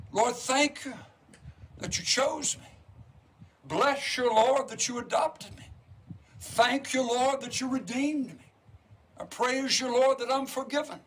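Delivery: lifted, earnest prayer voice; fervent prayer. Acted. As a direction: pray it out to the Lord with rising fervour. Prays aloud mid-sermon.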